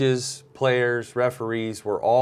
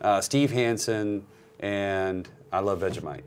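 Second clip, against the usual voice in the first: put-on poor Australian accent. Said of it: "that's my poor Australian accent".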